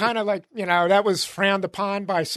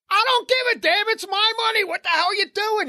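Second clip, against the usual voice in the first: retold outrage; 11 semitones higher than usual. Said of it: "I go".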